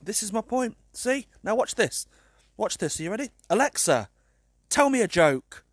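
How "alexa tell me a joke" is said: louder, firmer command; raised voice. Real, not acted. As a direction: raise your voice so she hears. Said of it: "I had to raise my voice".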